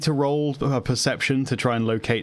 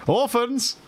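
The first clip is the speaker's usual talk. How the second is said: calling out; 11 semitones higher than usual. Acted. Calling into dark orphanage.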